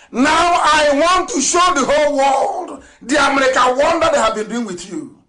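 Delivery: fiery rally shout. Real, not acted. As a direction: announce it to the whole world at full voice. Rallying crowd, denouncing deception.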